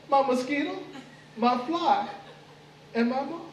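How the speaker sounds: gleeful menace. Acted. Anansi tells the mosquito, fly and moth they're his dinner, gloating. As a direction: gloat over them like prey.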